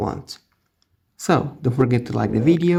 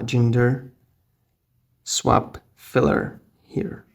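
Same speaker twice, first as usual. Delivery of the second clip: whispering; much slower than usual. Real, not acted. Typing search term while narrating.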